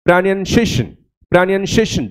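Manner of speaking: pronunciation said crisply in English, ra-nun-see-ay-shun; teacher modelling pronunciation cleanly; correct English pronunciation. Shown as a demonstration. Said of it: "ये तालु से निकलेगा".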